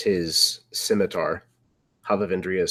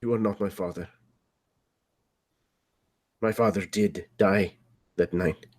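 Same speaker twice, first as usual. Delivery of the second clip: cold quiet; 6 dB quieter, faster than usual. Acted. Son cold rejection.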